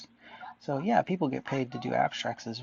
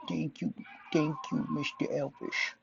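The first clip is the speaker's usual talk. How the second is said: Impression of a singer. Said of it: "Elvis impression voice".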